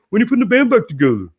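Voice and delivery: high, fast pestering fan. Retold or imitated. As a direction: rattle it off like an eager fan. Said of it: "Everybody's like".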